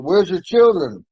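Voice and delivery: high, slow mock yell; retold hysterical screaming. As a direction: imitate a frantic demand, stretched out. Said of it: "They're hysterical".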